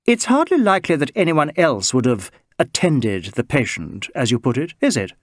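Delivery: lightly voiced cool Englishwoman; a hint of crisp disdain; cool crisp English. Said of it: "in the cool, crisp English".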